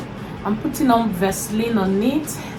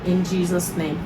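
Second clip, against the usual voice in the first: solemn family blessing. Real, not acted. Prays over the meal.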